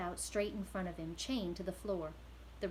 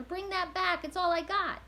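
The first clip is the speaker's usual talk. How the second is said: much higher, louder pleading yell; desperate shout; 10 semitones higher, 7 dB louder than usual. Acted. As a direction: scream for his only possession. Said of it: "shouted the prisoner".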